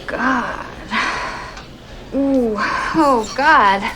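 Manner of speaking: drawn-out moans of pretended ecstasy; faked pleasure. Shown as a demonstration. Woman proving to a doubting friend it can be faked, moaning. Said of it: "that they fake orgasm".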